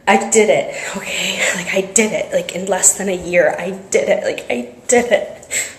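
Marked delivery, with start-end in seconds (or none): 0.1-2.3 real whisper of a small victory; whispered triumph. Real, not acted. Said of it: "I can't be too loud". 4.2-5.7 slow hushed whisper, savouring it; slow whispered triumph. Real, not acted. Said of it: "I can't be too loud".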